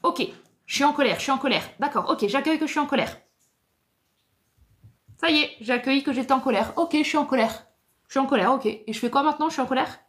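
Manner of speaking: high, fast, mock-chipper self-talk. Coach mimicking a client who accepts anger only in the head, hollow and hurried. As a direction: rattle off a hollow checklist of acceptance. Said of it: "ça c'est l'accueil avec la tête".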